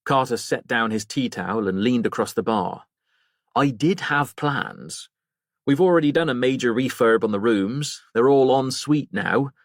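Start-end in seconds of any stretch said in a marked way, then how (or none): 3.5-9.5 landlord Harry. Acted. Landlord voiced leaning over.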